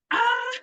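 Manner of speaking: short, high, loud yelp; mock scream of exasperation; frustrated scream. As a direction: let out an overwhelmed "ah". Retells reaction to son's tantrums.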